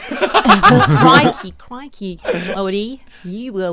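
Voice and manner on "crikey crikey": mock Aussie accent. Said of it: "Marley's trying to do all the accents".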